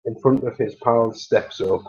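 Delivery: lightly put-on posh English accent; measured posh English impression. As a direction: do a posh Alec Guinness-style delivery. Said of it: "just doing my posh voice".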